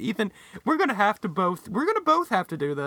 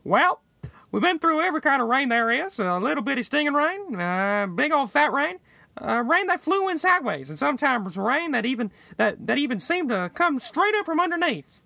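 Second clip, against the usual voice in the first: a touch higher, lightly voiced coach; Steve Spurrier voice; 5 semitones higher than usual. A friend asks for a Steve Spurrier voice, so a lightly voiced coach. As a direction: mimic a Southern football coach. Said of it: "do it in Steve Spurrier's voice".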